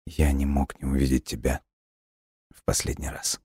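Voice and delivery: fading to a breathless whisper; soft farewell. A narrator's reading. Dying boy tells girl goodbye, fading whisper. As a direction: let the words fade out softly.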